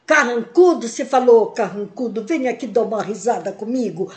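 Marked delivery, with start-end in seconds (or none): 1.5-4.1 softer, laughing invitation to a grump. Shown as a demonstration. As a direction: coax a frown into a laugh.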